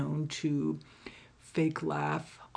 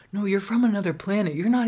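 higher, fast teasing imitation; mock baffled guy; 4 semitones higher, 5 dB louder, faster than usual. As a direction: mimic his bewildered verdict. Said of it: "He's like".

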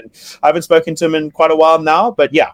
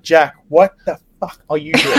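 mock angry yell; 3 semitones higher than usual. Retold blowup at Jack.

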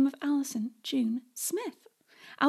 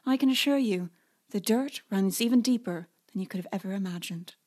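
storyteller opening, building suspense; dramatic intro read. Acted. Host opening the podcast episode for listeners, dramatic narration. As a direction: set up the saga like a trailer.

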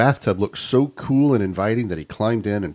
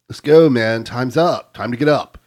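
frat bro; 2 semitones higher, 5 dB louder than usual. Acted. Frat brother waking the guy.

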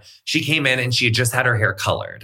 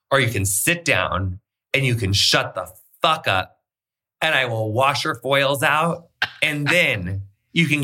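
slow, emphatic and controlled; retold stern ultimatum; 2 semitones higher, slower than usual. Business partner giving a client two choices, slow and stern. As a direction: lay down the options slowly and firmly.

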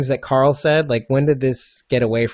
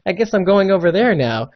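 slightly raised, lightly voiced goofy puppet; mock Muppet; 6 semitones higher than usual. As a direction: do a hint of a Muppet for this creepy character. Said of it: "like a Muppet".

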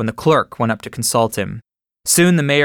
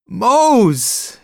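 high, loud cry of the name; joyful cry; 10 semitones higher, 3 dB louder than usual. A narrator's reading. The farmer seeing a lost worker return, crying out with joy. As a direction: call out the name in overwhelming joy. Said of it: "he cried".

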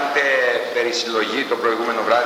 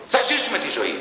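exalted oration; 7 semitones higher than usual. Real, not acted. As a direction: pitch rises high, ringing and uplifted. Lecturer's exalted praise of life. (ενθουσιώδης, υψωμένη φωνή ρήτορα)

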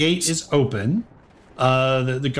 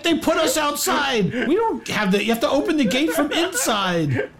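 panicked explaining; 9 semitones higher than usual. Acted. Guard explains the gate to his attacker, high panicked protest. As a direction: plead helplessly, pitched way up.

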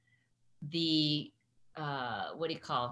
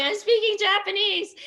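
mock-exasperated, much higher and louder; exasperated insistence; 14 semitones higher, 9 dB louder than usual. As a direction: replay the frustration of not being understood. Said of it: "And I'm going".

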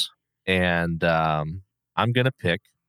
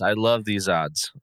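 slow deadpan. Shown as a demonstration.

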